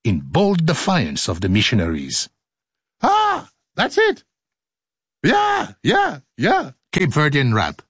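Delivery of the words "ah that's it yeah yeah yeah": delighted exclamation. Real, not acted. Exclaiming over music.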